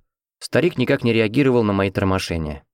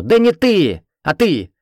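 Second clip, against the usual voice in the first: much higher, loud barked correction; sharp bark; 8 semitones higher, 5 dB louder, slower than usual. A narrator's reading. Nurse correcting the hero, pointing at Lena: sharp loud bark. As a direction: snap it out loud and high. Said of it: "резко гаркнула в мою сторону".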